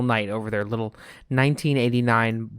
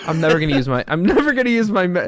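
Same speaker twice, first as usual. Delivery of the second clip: loud carnival barker; 6 semitones higher, 5 dB louder, faster than usual. Acted. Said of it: "You sound like a carnival barker".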